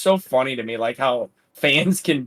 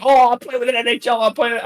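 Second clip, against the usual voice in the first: high, giddy fan gushing; all excited; 9 semitones higher than usual. Retold or imitated. Charles thrilled to join an NHL player, high giddy gush. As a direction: gush like a kid meeting a hero. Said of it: "So, Charles is all excited".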